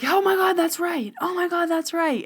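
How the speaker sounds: high-pitched imitation of an astonished man; mock amazement. Man hearing the palm reader get it right, mock amazed. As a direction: squeal it as if stunned.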